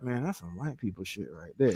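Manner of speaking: very soft, hushed, under the breath.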